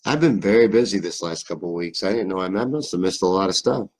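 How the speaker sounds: put-on a light Kentucky hillbilly accent. Streamer showing chat a hillbilly Kentucky accent. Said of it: "You like that hillbilly accent?".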